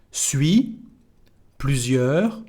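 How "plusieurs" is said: "plusieurs" ending on the R; silent final S. Shown as a demonstration. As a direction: leave off the last S of "plusieurs". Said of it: "don't pronounce the letter S at the end".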